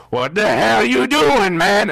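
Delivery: acted-out indignant outburst; pissed-off guy. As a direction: confront him, stretching the words out in annoyance. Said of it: "he's pissed".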